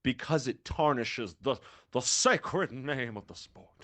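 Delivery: lightly voiced stuffy old man, slow; a hint of pompous old gentleman; old white guy voice. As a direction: draw it out like a monocled old traditionalist. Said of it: "say it in your oldest white guy voice".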